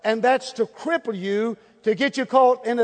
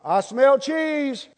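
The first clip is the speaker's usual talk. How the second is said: slow, higher drawn-out catchphrase; 5 semitones higher, much slower than usual. Pretend. Drawn-out punchline.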